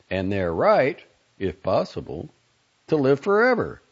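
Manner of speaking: a hint of a stern, emphatic doctor; lecturing doctor. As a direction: lecture him forcefully, hitting key words loud. Doctor character lectures the father.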